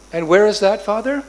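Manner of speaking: lightly voiced small boy wondering; childlike question. Little Krishna asking his father, curious child.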